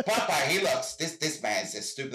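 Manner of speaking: deliberately bad, lightly put-on American accent; half-hearted American accent impression; worst American accent. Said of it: "That's my worst American accent".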